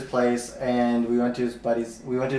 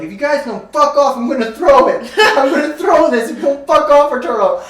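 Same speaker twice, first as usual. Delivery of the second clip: high, loud mock girlfriend screech; shrill girlfriend threat; 11 semitones higher, 7 dB louder than usual. Girlfriend on the balcony threatening the drunk guys, high mock screech.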